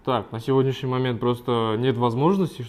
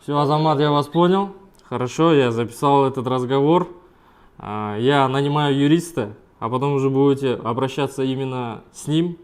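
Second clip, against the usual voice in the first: firm raised voice; 4 dB louder than usual. Acted. Client firmly pushes back at collector.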